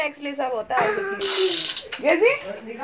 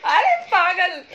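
laughing tease; 3 semitones higher, 4 dB louder, slower than usual. Real, not acted. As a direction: laugh it out while teasing. Teasing crying child. (हँसते हुए चिढ़ाना)

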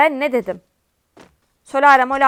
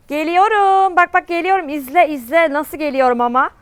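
high, louder hyped callout; excited taunt; 4 semitones higher, 3 dB louder than usual. Real, not acted. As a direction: hype up the rush. Taunting enemy while rushing. (heyecanla meydan okuma)

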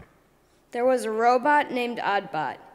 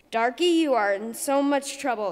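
raging; 3 semitones higher, 5 dB louder than usual. Acted. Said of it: "Squawky raged".

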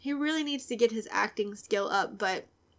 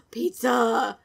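delighted cry; 7 dB louder than usual. Real, not acted. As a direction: gasp then cry out pizza. Sudden delight at pizza.

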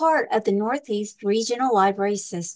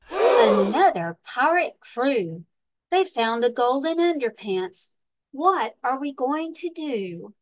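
dismayed pirates; 2 semitones higher, slower than usual. Acted. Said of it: "the pirates gasp".

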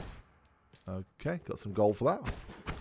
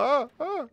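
imitated short yelps; mock scream; 6 dB louder than usual. Player re-enacting their own screaming, mock yelps. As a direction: mimic your own startled cries. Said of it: "I don't know why I was screaming".

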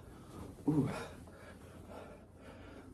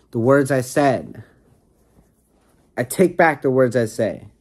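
loud; 3 semitones higher, 7 dB louder than usual. Pretend. Mock dramatic apology to girlfriend.

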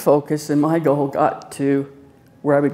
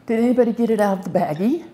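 mock surgeon; 6 semitones higher, faster than usual. Voicing the surgeon.

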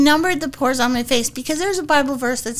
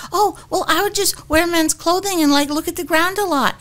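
Diane Keaton; 5 semitones higher than usual. Retold or imitated. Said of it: "if I wanted you to be Diane Keaton".

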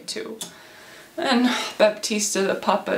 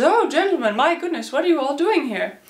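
higher-pitched, fussy welcome; flustered surprise; 5 semitones higher than usual. Acted. Baptista finding suitors at his house, flustered surprise. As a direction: greet them in mild acted astonishment.

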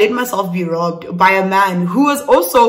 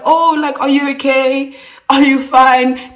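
mock concern; 4 semitones higher, 4 dB louder than usual. Acts the onlookers' amused concern.

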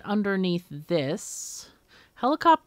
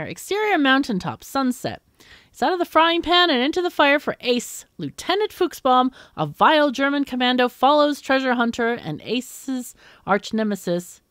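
raised, punchy announcer read; dramatic script narration; 6 semitones higher, 6 dB louder than usual. Acted. Narrator setting an action scene for Ace, dramatic read. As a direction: read it like a movie trailer, pitch up.

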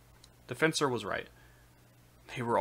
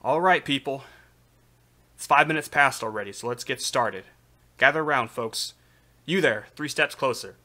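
loud, high rallying call; shouting; 4 semitones higher, 8 dB louder than usual. A narrator's reading. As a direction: call the crowd together loudly. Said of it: "a shout that echoed across the square".

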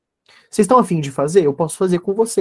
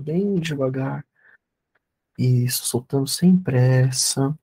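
guided meditation. Acted. (voz calma de meditação guiada)

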